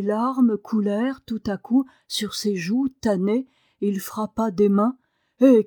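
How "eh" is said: short exclaimed interjection; cri. A narrator's reading. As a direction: exclaim it through emotion. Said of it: "cria-t-il". (exclamation soudaine)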